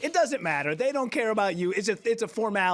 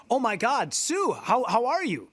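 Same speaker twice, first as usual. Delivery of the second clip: re-enacted excited hello, pitched up; higher, eager retold greeting; delighted greeting; 5 semitones higher than usual. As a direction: greet a long-lost relative in astonishment. Retold surprise meeting with godmother.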